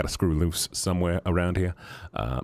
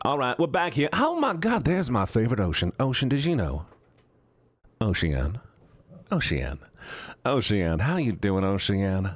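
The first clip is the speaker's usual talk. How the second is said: high cutesy greeting; 5 semitones higher than usual. Acted. Greeting viewer in other voice.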